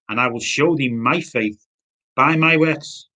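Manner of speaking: measured, slow Bible reading; scripture reading. Acted. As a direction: read the old verse out deliberately, phrase by phrase. Reads a Bible verse aloud.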